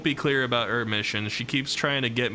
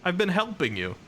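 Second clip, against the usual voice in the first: pitched way up in mock disbelief; incredulous protest; 10 semitones higher than usual. Streamer quoting herself to Ronnie, high incredulous protest. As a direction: protest high and baffled, as if wronged. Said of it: "And I'm like".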